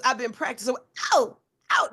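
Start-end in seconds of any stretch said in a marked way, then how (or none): 1.1-1.9 drawn-out dramatic exclamation; milk the pause for drama. Shown as a demonstration. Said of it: "That was my dramatic pause".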